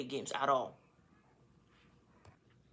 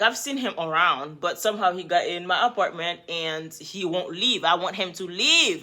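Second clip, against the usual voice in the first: louder, urgent plea to the police; screaming at cops; 2 semitones higher, 7 dB louder than usual. Retold or imitated. Woman telling the police he won't leave, loud and urgent. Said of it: "And I started screaming".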